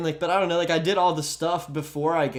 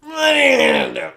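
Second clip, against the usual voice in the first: shouting; 7 semitones higher, 5 dB louder than usual. Pretend. Mock shouted challenge.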